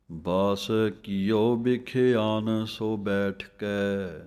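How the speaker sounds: slow, measured recital of the verse; slow scripture recitation. Shown as a demonstration. Teacher reciting the verse for students, slow and measured. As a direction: read each word of the verse deliberately. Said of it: "ਬਿਖਿਆਨ ਪਾਠ ਹੈ".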